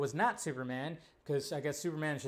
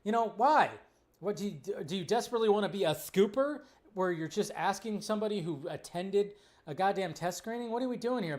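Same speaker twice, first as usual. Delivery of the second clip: exasperated rant; 3 semitones higher than usual. Retold or imitated. Vlogger ranting at wannabe scoopers, fed up and exasperated. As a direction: tell scoopers off in disbelief. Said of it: "and I'm going".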